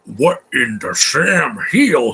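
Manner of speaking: slow, drawn-out put-on voice; slow mocking impression of a movie character; mock Kevin Hart. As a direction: ham up an old-timey exclamation. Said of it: "he sounds like".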